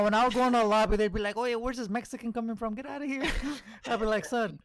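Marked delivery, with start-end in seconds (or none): 1.4-3.2 lightly put-on Mexican accent for lobby players; mock a lobby player with a Mexican accent. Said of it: "they said it in the Mexican accent". 4.2-4.6 indignant retort in a mock white American accent. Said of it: "you said it in the white accent".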